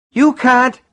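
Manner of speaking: high, loud squawk of protest; terrified, outraged squawk. A narrator's reading. Old man protesting as his car is taken, squawking. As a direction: squawk it in panic and indignation. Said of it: "uttered a squawk of terror and outrage".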